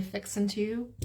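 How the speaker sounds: "fixin' to" with the g dropped, as Southerners say it. Shown as a demonstration. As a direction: say "fixin' to" as fix-in-to, Southern style. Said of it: "I heard people say".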